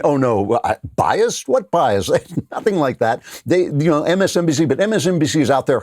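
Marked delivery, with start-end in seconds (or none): 0.0-2.1 mocking Brian Stelter. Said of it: "some clown like Brian Stelter, you know, saying".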